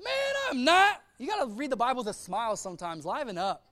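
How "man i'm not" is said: high, breezy brush-off; casual dude Peter. Acted. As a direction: say it with a smile, no worries. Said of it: "You ever read the Bible like that?".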